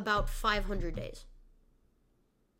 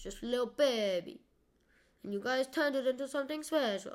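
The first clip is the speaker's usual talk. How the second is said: put-on awful Italian accent. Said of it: "stop using my awful Italian accent".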